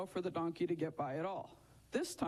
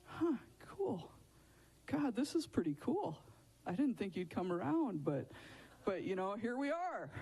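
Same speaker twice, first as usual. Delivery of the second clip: casually chuffed imagined reaction, pitch popping up; pleased Balaam; 3 semitones higher than usual. Acted. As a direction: act out a man pleasantly surprised, lightly. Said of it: "I think he was like".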